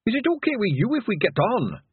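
high, tentative Scots question; nervous pixie. A narrator's reading. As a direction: ask permission timidly, with a brogue. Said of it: "holding up a nervous hand".

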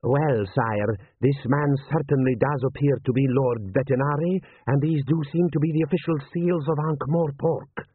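lightly voiced general advising his prince; cautious, respectful military adviser; deferential general.

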